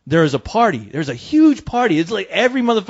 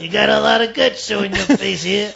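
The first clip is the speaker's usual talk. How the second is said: Lando scolding; 4 semitones higher than usual. Acted. Lando voice greeting Han Solo.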